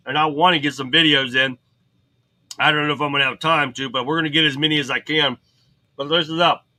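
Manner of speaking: talking around a mint; words round a mint in the mouth. Real, not acted. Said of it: "Sorry, I got a mint in my mouth".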